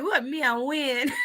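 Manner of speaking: slow, smooth imitation; Toya. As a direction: stretch it out in a New Orleans drawl. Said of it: "she talk real slow when she do it".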